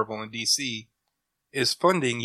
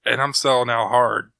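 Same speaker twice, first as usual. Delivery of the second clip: loud, emphatic, half joking; loud declaration; 8 dB louder than usual. Real, not acted. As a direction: boldly declare it, proudly loud. Insisting he'd sell out.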